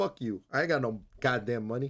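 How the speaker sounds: put-on angry character voice. Retelling a scene where the character is getting robbed, mock-angry Spike impression. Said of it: "and he's all pissed off".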